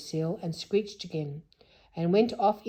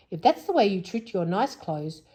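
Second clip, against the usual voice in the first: mild scolding; 4 dB louder than usual. Acted. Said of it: "he scolded".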